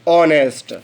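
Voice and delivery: ऑनेस्ट starting on the vowel ऑ, no h; silent h. Shown as a demonstration. Teacher repeats ऑनेस्ट so students catch the sound. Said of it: "हम हॉनेस्ट नहीं, ऑनेस्ट पढ़ते हैं".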